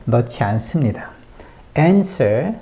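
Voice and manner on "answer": "Answer" with weight on "An"; stress on AN. Shown as a demonstration. Teacher shows the stressed syllable, firm "An" in "Answer". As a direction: lean on the first syllable of "Answer". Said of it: "강세를 an에 넣어줘야".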